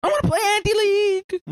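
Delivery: high, fast shouted whine; yelling. Acted. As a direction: demand it in a tantrum. Guttersnipe continues yelling.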